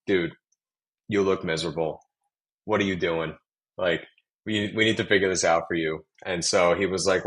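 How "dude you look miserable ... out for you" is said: put-on light thick New York accent; a hint of a New York dad. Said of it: "super thick New York accent".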